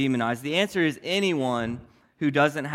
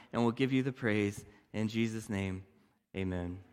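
prayer. Acted. Pastor prays before the sermon.

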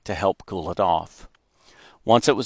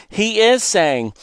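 excited; 12 semitones higher, 5 dB louder, slower than usual. A narrator's reading. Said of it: "I said excitedly".

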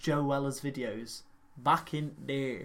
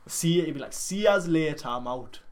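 mock Geordie accent. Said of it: "What was that accent?".

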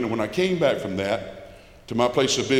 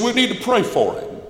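church folks' voice; 10 semitones higher than usual. Retold or imitated. Church people answering the friend.

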